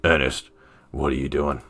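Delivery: a hint of a deep-voiced man. Robert questions Ernest by the squad car, lightly deepened voice. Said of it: "It was just a deep voice".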